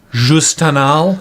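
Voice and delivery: slow breathy perfume ad voice; sultry perfume ad. Pretend. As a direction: purr the brand name slowly. Naming a mock fragrance.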